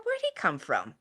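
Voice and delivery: hushed, breathy whisper of a private thought. Retold or imitated. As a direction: whisper it to yourself, puzzled. Thinking to herself in the car.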